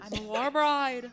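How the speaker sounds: put-on Irish accent. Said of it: "do an Irish accent".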